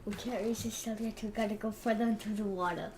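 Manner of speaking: lightly voiced Viking; a hint of Viking talk. Friend asked to talk like Viking, lightly put-on Viking voice. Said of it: "that was pretty good Viking".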